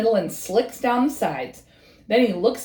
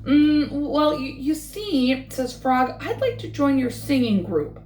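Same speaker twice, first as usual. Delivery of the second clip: hesitant, slow shy asking; shy frog; 3 semitones higher than usual. Acted. Frog asks the birds to join their group, shy and hesitant. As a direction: stammer out the request shyly. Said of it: "Frog feels a little shy".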